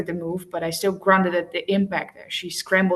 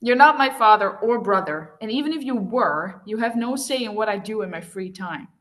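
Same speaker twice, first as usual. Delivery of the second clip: defiant; 3 semitones higher than usual. Acted. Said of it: "lifted her chin in defiance".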